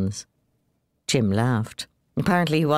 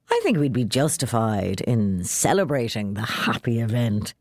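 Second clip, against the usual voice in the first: arch; 3 semitones lower than usual. Acted. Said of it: "he said archly".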